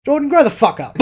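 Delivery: high, laughing scold; laughing outburst at a friend. Real, not acted. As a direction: scold him through a laugh.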